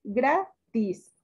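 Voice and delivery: "Gratis" split as GRA, tis; stress on first syllable. Shown as a demonstration. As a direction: lean on GRA in "Gratis", then pause. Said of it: "Sílaba tónica".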